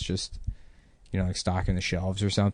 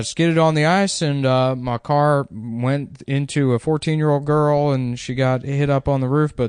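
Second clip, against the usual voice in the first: put-on manager excuse; 4 semitones higher, 4 dB louder than usual.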